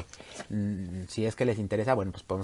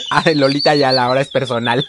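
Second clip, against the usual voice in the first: breaking character giggling; 3 semitones higher, 10 dB louder than usual. Real, not acted. Second giggle fit, joking.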